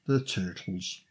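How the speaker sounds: New York "the Turtles" as toitles; dropped low, New York accent on Turtles. Pretend. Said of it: "say it in a New York accent".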